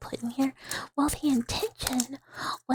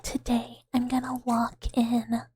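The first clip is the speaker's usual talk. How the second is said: inner thought. Retold or imitated. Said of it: "Sometimes I think to myself".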